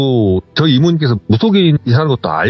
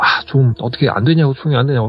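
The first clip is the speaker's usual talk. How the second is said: ordinary talk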